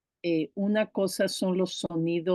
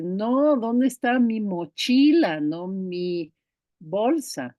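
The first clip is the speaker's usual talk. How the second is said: a hint of an exasperated mother, pitched up; a child protesting to mom, mildly raised; mock annoyed mom; 2 semitones higher, 4 dB louder than usual. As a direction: play the fed-up mom correcting her kid. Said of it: "uno como mamá llega y le da".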